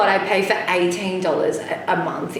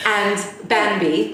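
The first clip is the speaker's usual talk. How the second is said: put-on BAMBI drawn out in an English accent; much slower than usual. Giving the dog's name so it is understood, English accent. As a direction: say Bambi slowly, over-enunciated and English. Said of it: "put on my English accent".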